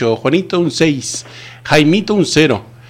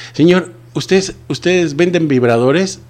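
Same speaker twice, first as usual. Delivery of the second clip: put-on sweet old lady; 5 semitones higher, slower than usual. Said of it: "yo no sé hablar como viejita".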